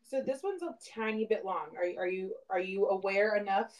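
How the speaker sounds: distant from the microphone; talking far off the mic. Real, not acted. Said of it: "if I sound far away, that's why".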